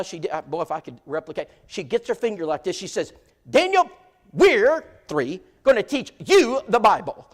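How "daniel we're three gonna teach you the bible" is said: high, loud falsetto call to the husband; mock shrill wife yelling. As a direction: bark it like a bossy wife waking her man. Brenda wagging finger at husband.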